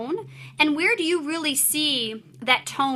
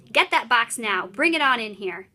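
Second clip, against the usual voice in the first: firm and a bit louder, giving orders; take charge voice; 4 dB louder than usual. Acted. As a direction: tell the kid what to do. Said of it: "in his take charge voice".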